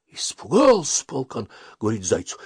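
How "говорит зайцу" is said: ordinary delivery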